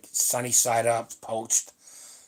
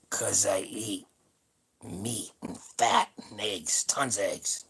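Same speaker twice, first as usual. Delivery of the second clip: hushed, breathy secret-sharing whisper; confiding whisper; 4 semitones lower, 4 dB quieter, slower than usual. Real, not acted. Confiding secret of his diet.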